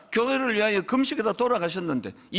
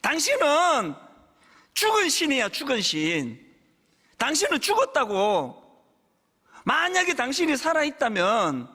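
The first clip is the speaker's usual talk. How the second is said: higher, half-acted furious railing at the sky; retold angry rant at God; 5 semitones higher than usual. Pastor retells cursing God as a young man, mock furious. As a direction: relive shouting at God, pointing upward, a touch of tears. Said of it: "하늘을 향해 삿대질을 하면서 막 엉엉 울면서".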